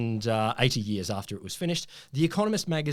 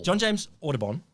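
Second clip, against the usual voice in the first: John James Audubon with French zh sounds, Zhon Zhames; French accent; 4 semitones higher than usual. Shown as a demonstration. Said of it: "That's French".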